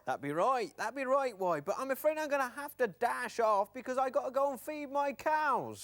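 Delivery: loud high cartoon farmer; farmer puppet. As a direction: boom a cheery farmer's greeting.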